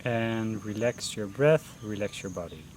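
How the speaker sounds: unhurried meditation guidance with long pauses; guided meditation. Real, not acted. Teacher leading beginners through a mindfulness breathing session, guided meditation voice. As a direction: guide them gently into breath focus, pausing between phrases.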